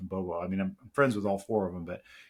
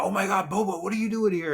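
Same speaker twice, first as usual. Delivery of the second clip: high, excited mock squeal; imitating starstruck fans; 10 semitones higher, 3 dB louder than usual. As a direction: play a fan freaking out at the bar. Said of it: "people would freak out".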